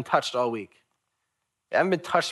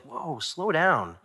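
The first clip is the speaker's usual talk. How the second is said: drawn-out, easy "whoa"; slowing someone down; 3 semitones higher, much slower than usual. Retold or imitated. Preacher to anxious churchgoer, slow and calming. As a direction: rein them in slowly.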